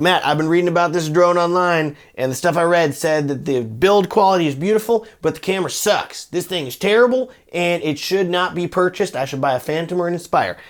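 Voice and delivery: mock viewer in a country accent. Viewer quoting online complaints to the reviewer, country accent. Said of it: "I'm using a country accent for you".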